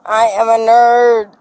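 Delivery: loud, slurred mocking chant. Real, not acted. Drunk taunting the body cam.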